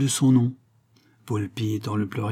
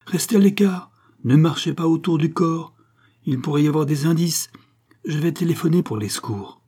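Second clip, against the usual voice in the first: high, loud commands to stay back; shouted warning; 6 semitones higher, 4 dB louder than usual. Acted. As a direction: shout to keep them off the scene. Ordering workers back.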